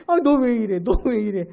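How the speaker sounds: a light imitation of a meddling churchgoer; mock nagging. Lightly mocking a hypocrite who scolds a neighbour. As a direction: toss off a faintly scolding jab. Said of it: "참견하고 따지고 막".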